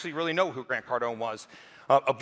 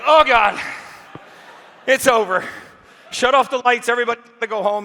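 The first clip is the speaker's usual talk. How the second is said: higher and louder, hammed-up dread; mock panic; 7 semitones higher, 7 dB louder than usual. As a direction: play it like the end of the world. Speaker panics, thinks it's over.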